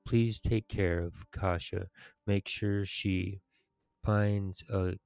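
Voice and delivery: measured, solemn story narration with pauses; dramatic quest reading. Acted. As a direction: read the quest aloud like a heroic tale. Reads quest dialogue aloud in character.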